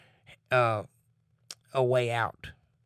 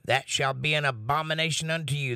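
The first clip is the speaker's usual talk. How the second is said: measured Bible reading voice; scripture reading; 3 semitones higher than usual. Acted. Reads scripture aloud.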